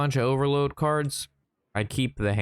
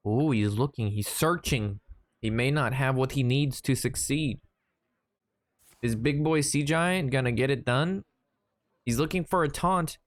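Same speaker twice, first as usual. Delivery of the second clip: playful match commentary with rising urgency; mock play-by-play; 3 semitones higher than usual. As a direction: call the game like a sportscaster.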